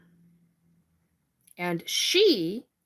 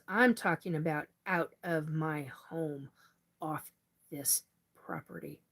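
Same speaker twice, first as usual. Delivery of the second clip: real anger; 2 semitones lower, 4 dB quieter than usual. Real, not acted. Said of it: "And now I'm pissed".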